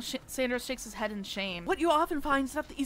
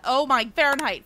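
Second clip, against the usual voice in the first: flustered answer; 8 dB louder than usual. Real, not acted. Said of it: "What temperature does wild water boil at?".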